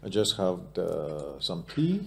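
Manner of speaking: English with a light South African accent. Shown as a demonstration. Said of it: "Έχεις νοτιοαφρικανική προφορά στα αγγλικά σου".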